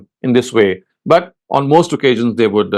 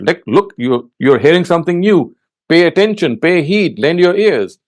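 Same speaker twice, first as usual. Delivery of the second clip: mildly raised, respectful appeal; respectful urging; 4 semitones higher than usual. Shown as a demonstration. Telling people to listen to a speaker, respectful urging. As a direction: urge listeners respectfully to take heed. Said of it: "in a very respectful way".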